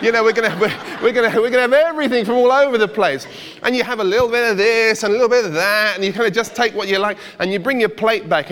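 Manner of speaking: gleeful rush about a buffet; excited. Real, not acted. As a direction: pile it on with relish.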